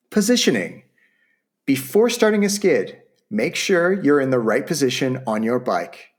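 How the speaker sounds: upbeat sales-pitch read; infomercial voice. Acted. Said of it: "I'm starting to sound like an infomercial".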